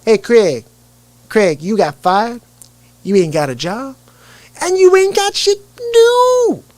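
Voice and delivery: high, teasing comic impression; Chris Tucker. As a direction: stretch it out, building to a high squeal. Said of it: "I used to do a better Chris Tucker".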